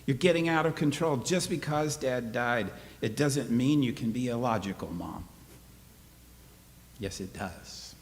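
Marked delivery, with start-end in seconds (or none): 0.1-5.2 put-on boy scolding mother. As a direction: scold her like a know-it-all kid.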